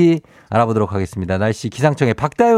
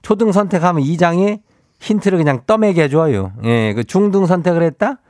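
Chungcheong dialect; 6 semitones higher than usual. Acted. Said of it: "행진리 이장인데요".

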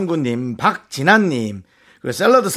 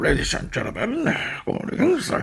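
slurred, proud pilot announcement; airline captain impression; 3 semitones higher, 5 dB quieter, much slower than usual. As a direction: mumble it like a cocky captain. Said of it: "자존심 되게 강한 사람처럼 방송한다".

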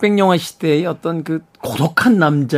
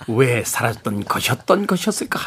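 silent film narrator. Retold or imitated. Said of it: "변사 톤".

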